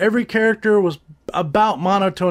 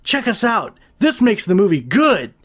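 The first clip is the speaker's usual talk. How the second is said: mocking filmmakers; 4 semitones higher than usual. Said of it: "So they like".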